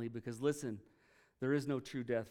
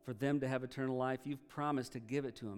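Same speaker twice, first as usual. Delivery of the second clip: closing prayer; 2 semitones lower than usual. Acted. Pastor leads closing prayer.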